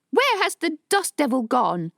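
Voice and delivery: high, loud frantic question; panicked villager screams at Gervais; screaming. Acted. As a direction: scream it at the student. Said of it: "a man screamed".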